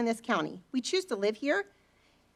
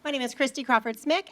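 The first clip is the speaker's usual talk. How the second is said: teacher voice; 2 semitones higher than usual. Real, not acted. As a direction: project it like addressing a class. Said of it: "I can use my teacher voice".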